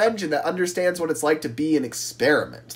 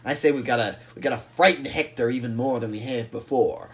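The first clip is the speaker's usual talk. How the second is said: scheme quietly, with a touch of desperation; desperate; 4 semitones lower, 5 dB quieter than usual. Acted. Scruffy rallying the trucks for a last stand, desperate. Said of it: "would get more desperate and be like".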